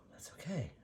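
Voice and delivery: reassuring herself in a whisper; real whispered self-calming. Real, not acted. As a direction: soothe yourself, barely voiced. Calming herself over the paint.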